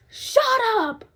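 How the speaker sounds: put-on high, sharp hushing old lady; old lady snapping. Old lady hushing screaming patient, high and sharp. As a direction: snap at the screaming woman. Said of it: "she was like".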